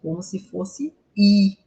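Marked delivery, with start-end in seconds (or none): 1.2-1.6 "I" as a drawn-out "ee"; emphatic, stretched "I"; long I sound. Shown as a demonstration. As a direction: hold the Portuguese vowel "I" long. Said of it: "e um I bem longo".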